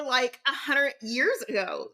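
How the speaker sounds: usual speaking voice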